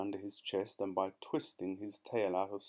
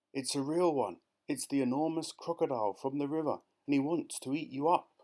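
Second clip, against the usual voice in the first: higher, lightly voiced bird; 5 semitones higher than usual. Roly-poly bird tells Jill. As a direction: chirp it out as the bird.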